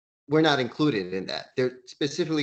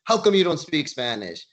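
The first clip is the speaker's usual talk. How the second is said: mocking taunt; 4 semitones higher, 6 dB louder than usual. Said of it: "we would pick on them and say".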